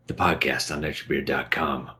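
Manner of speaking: low, lightly gruff thief narrator; a hint of a brooding thief; Garrett voice. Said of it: "that was supposed to be my Garrett from Thief, Deadly Shadows voice".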